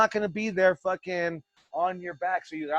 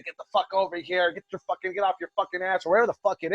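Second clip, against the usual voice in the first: louder, higher angry bark at a wrestler; coach yelling; 4 semitones higher, 4 dB louder, faster than usual. Retold or imitated. Coach yelling at a slacking student mid-match, angry shout. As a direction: yell like a coach mid-battle. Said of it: "I'm gonna yell at you".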